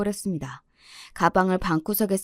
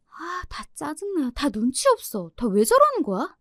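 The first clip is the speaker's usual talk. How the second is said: exasperated groan; 6 semitones higher than usual. Retold or imitated. 부모 다툼을 듣고 혼자 투덜대며. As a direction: sigh it out alone. Daughter mutters alone after fight.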